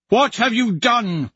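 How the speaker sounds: aghast at what he did; horrified. Acted. Horrified father.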